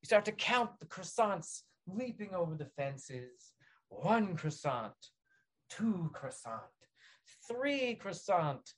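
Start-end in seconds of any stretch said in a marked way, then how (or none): 3.9-8.7 drawn-out counting like sheep; slow sleepy counting. Acted. Counting croissants to fall asleep, slow drowsy count. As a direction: count them slowly to sleep.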